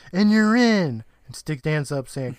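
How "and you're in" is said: high, loud excited announcement; chirpy, loud welcome into the group; piping up. A narrator's reading. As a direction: pipe up brightly, stretching the last word. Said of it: "Tucker pipes up saying".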